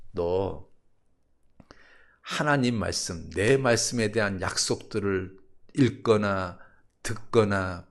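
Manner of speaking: slow, measured voice of God; God's voice. Acted. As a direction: question him slowly and gravely, as God. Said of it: "하나님이 자기한테 그러더래요".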